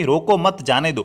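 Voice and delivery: रोको मत as one group, then जाने दो; pause after मत. Shown as a demonstration. Teacher showing how you misunderstood, pause after मत. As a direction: break before जाने दो. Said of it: "आपने समझ लिया कि".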